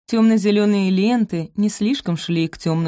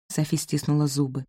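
plain reading voice

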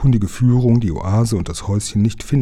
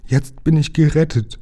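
relieved joy; 7 semitones higher than usual. A narrator's reading. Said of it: "wiederholte er immer wieder".

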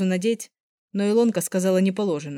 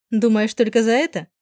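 teasing with a light laugh; mild chuckling tease, a bit louder; 5 semitones higher, 7 dB louder than usual. A narrator's reading. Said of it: "хохотнула я".

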